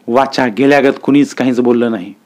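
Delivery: ordinary delivery, nothing marked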